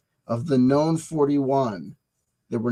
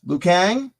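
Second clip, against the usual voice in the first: joke shout; 6 semitones higher, 4 dB louder than usual. Acted. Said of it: "That was a joke".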